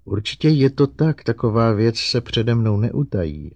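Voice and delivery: high-pitched, eager-to-help robot; earnest robot. Acted. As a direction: plead insistently in a high robot voice. Narrator voices Herbie the robot.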